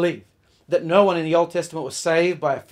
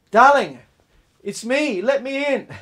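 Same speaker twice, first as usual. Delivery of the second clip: raised, coaxing call of a tipsy husband; pleading drunk husband; 7 semitones higher, 6 dB louder than usual. Retold or imitated. Drunk husband begging his wife at the door, loud coaxing call. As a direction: sweet-talk your way through the locked door.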